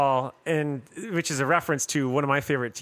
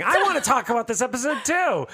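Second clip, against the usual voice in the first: put-on child voice; 9 semitones higher than usual. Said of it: "a little one that was screaming out".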